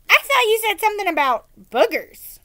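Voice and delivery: put-on confused, half-deaf old woman.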